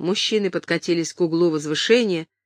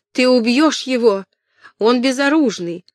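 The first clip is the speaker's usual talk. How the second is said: higher and louder, pleading in alarm; desperate shout; 6 semitones higher, 4 dB louder than usual. Acted. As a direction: yell it across the hall. Catherine screaming during the fight.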